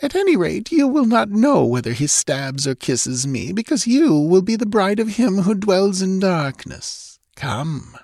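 high, taunting, ominous voice; menacing villainess. A narrator's reading. Captor tells her prisoner of her dark bridegroom, menacing. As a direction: threaten grandly in a high villainess voice.

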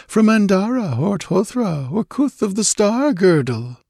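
high, slow, languid reverie; dreamy drawl. A narrator's reading. Dreamy stranger marvelling at a golden-haired girl, drawling. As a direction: draw the words out as if lost in visions. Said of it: "and he drawled".

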